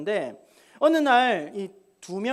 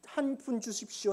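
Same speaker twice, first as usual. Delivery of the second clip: soft, meek begging; acted humble request; beggar's plea; 3 semitones higher, 6 dB quieter than usual. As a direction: plead quietly for a coin. Voicing a beggar pleading for coins.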